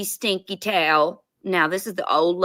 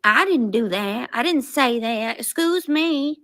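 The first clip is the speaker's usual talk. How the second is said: mock-innocent protest, pitch climbing at the end; mock denial; 4 semitones higher than usual. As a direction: play a put-on, indignant denial. Mimics accuser's denial in argument.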